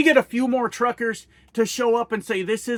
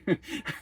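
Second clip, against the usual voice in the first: breathy laugh; 9 dB quieter than usual. Real, not acted. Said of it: "I'm laughing at myself".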